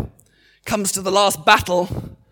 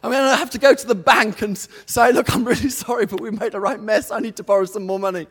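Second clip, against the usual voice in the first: fearful inner voice; 4 semitones higher, 3 dB louder, faster than usual. Retold or imitated. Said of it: "all the fears and the doubts".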